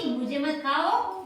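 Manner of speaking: put-on stretched out, slow, for small children; slow repeat. Teacher repeating the mouse's plea slowly for kids.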